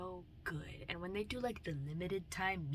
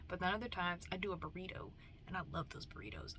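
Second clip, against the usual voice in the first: whisper; 5 dB quieter, faster than usual. Real, not acted. Whispered burrito love.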